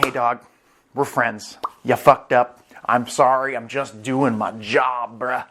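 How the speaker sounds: easygoing apology, lightly voiced; Borsalino, cool about it. Admiral just doing his job, playing it cool. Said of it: "Borsalino's really cool about it".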